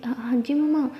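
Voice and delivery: hushed whisper, turned away from the boss; a quick guilty whisper to mom; whispered aside. Acted. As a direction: whisper it into the phone so nobody hears. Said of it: "थोड़ा side पे मुँह करके कहती".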